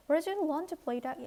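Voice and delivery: very slow, deliberate English read-aloud. Shown as a demonstration. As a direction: read each word slowly for learners. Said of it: "reads the English text slowly".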